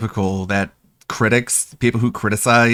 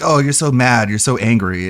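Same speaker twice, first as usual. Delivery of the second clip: mocking lolcow. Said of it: "it's so common for lolcows to be like".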